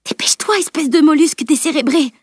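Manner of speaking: hushed start, rising to high scolding; half-whispered, high-pitched insult; urgent stage whisper. A narrator's reading. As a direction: hiss an exasperated order. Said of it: "chuchota-t-elle".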